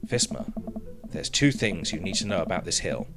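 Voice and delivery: laid-back coach. Acted. Voices the coach Craig.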